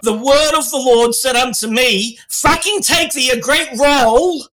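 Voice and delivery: half-hearted British chef impression; Gordon Ramsay. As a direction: stress the swearing like a cross chef. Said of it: "do a Gordon Ramsay accent".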